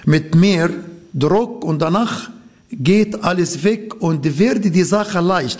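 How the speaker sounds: ordinary delivery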